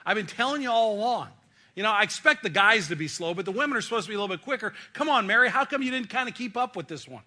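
exasperated, hands-on-hips chiding of Mary; impatient scolding. Retold or imitated. Jesus imagined scolding Mary, impatient and exasperated. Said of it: "with his hands on his hips".

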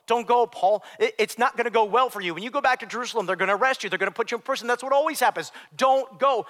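loud, high mock-tearful pleading; imitated bawling plea. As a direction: plead urgently as the weeping elders, without real sobs. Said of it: "start weeping. They're bawling".

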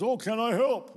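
put-on high, bright child's voice asking to help; a young son's eager voice; eager little boy. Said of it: "and he was".

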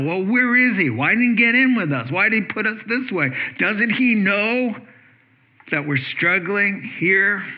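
frightened rowers griping about the absent teacher, mock whiny; complaining. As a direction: play a fretting, aggrieved rower. Imagined disciples complaining.

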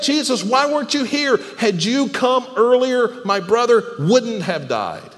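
mildly angry retold complaint, slowing toward the end; upset, angry. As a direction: voice a grieving sister's accusing questions. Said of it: "Mary is pretty upset".

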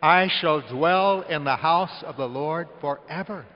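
slow, loud, said with everyone; leading the congregation in a loud, slow recitation; loud unison recitation. Real, not acted. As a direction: lead them in saying it together. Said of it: "Say that with me".

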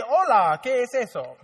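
mock Spanish speaker, lightly put on; Spanish accent. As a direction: play a Latino customer. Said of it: "could be anybody's people".

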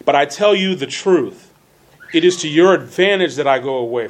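measured reading with key words punched; emphatic, well-enunciated Bible reading; deliberate scripture reading. Real, not acted. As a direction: read scripture out with careful elocution. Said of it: "that's emphasizing certain words".

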